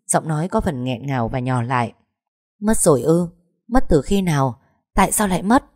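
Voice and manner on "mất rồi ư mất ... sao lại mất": shocked questions. Acted. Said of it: "kinh ngạc ngồi xuống".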